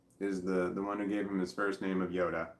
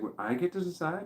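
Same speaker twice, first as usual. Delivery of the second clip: surprised daughter; 8 semitones higher than usual. Retold or imitated. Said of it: "She's like".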